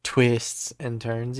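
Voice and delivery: Twists said slowly with a strong TW at the start; southern twang. Shown as a demonstration. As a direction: Twists and turns with a drawn-out twang. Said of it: "more emphasis on the W in twist".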